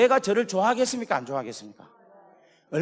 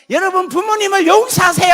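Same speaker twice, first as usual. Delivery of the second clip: high, loud call to forgive; preaching shout; 11 semitones higher, 13 dB louder than usual. Retold or imitated. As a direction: cry it out to the hall like a revival preacher. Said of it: "기도회를 인도하죠".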